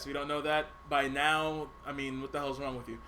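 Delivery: chewing gum while talking. Real, not acted. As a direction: gum in the mouth, loose jaw. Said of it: "I'm chewing gum".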